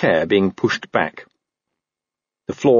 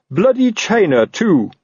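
high, indignant parting shot; blustering, raised exclamation; irate captain; 12 semitones higher, 3 dB louder, slower than usual. Acted. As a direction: throw the demand through the door. Colon yells parting demand through door.

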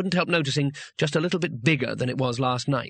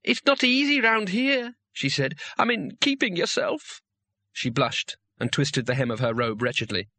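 coy and hesitant, much higher; bashful girl; 7 semitones higher than usual. Acted. She blushed and twisted the hem.

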